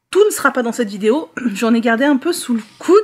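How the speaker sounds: hoarse after swallowing wrong; slightly cracked, hoarse voice; swallowed wrong way. Real, not acted. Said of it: "j'ai la voix un peu cassée". (voix cassée après avoir avalé de travers)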